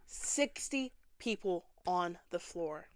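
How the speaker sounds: breathy whispered aside; hushed disbelief at the crowd. Acted. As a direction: whisper it like a shocked secret. Whispered aside after the count.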